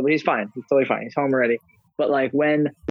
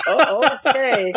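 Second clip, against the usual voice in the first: slow, drawn-out oh okay; a nurse sighing at a tiresome patient; weary nurse; 9 semitones higher, 3 dB louder, much slower than usual. Retold or imitated. Nurse humouring the confused old dad, slow and weary. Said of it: "The lady's like".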